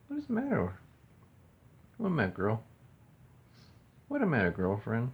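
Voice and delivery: high coo to the bird. Real, not acted. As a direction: ask the bird sweetly what's wrong. Baby talk to bird.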